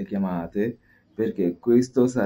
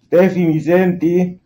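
calling out; 9 semitones higher, 9 dB louder, slower than usual. Real, not acted. Calling into the phone.

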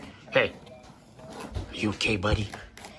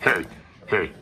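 slow-mo; 9 semitones higher, 4 dB quieter than usual. Real, not acted. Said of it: "here's the slow-mo version".

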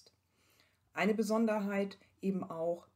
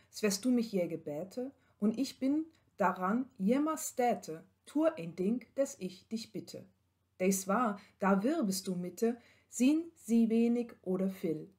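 louder, measured recital of a medieval poem; reading an old text aloud; 3 dB louder than usual. Acted. Lecturer reads the medieval couple's dialogue to students, recited. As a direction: declaim the verses like an old tale.

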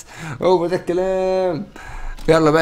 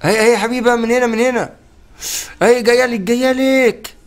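1 excited cheering; 7 semitones higher than usual. Real, not acted. Cheering pet to attack.

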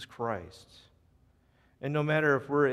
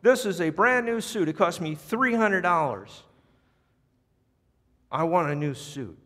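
high, loud, furious complaint; enraged diner berating the manager; angry scream; 5 semitones higher, 5 dB louder than usual. Retold or imitated. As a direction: yell about the ruined suit. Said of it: "The guy screams".

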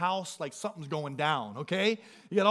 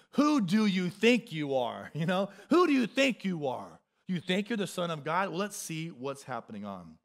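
mocking Satan. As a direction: taunt him lightly. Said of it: "It's a mocking tone".

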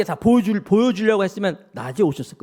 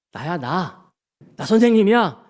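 calm startled followers with raised, insistent assurances; lightly voiced Jesus reassuring; 5 semitones higher than usual. Jesus identifying himself to frightened disciples, lightly acted urgent reassurance. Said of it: "말씀하시는 거예요".

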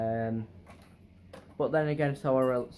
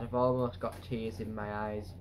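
mock tearful; 3 semitones lower, 4 dB quieter than usual. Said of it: "I'm getting emotional".

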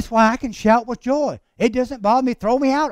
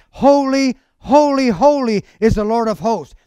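raised-voice quote of angels' praise; crying out. Acted. Preacher quoting angels who cried to one another, crying out. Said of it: "One cried to another".

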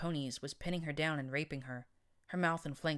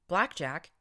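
louder startled question; shocked recognition; 3 semitones higher, 6 dB louder than usual. Acted. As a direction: gasp her name in disbelief. Unicorn recognizes narrator.

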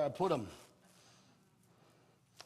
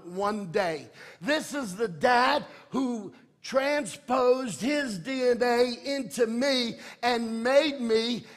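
sermon climax, rising in pitch and force; building impassioned preaching; 4 semitones higher, 4 dB louder than usual. Real, not acted. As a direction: build steadily to an emphatic finish.

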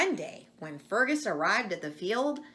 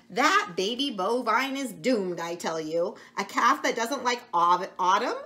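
a know-it-all goat, louder; sage old goat; 4 semitones higher, 5 dB louder than usual. Acted. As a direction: pronounce doom like a wise old goat. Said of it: "declared Goat Walter sagely".

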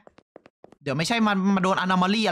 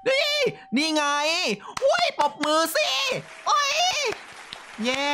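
excited cheer. Real, not acted. Cheering at game ending.

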